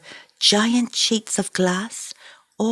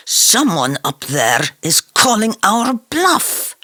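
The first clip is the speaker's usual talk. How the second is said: slow, grim and a touch louder; tight-lipped anger; 4 semitones higher, 4 dB louder than usual. Acted. Musa to the others, grimly warning they're being tested. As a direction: bite the words out through a tight mouth. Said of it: "his mouth tightening into a fist".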